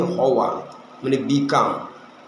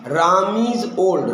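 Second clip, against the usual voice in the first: very slow, every word set apart; slow model sentence; much slower than usual. Shown as a demonstration. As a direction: dictate it slowly to the class. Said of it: "আমি যদি বলি". (ধীরে ধীরে স্পষ্ট করে বলা উদাহরণ)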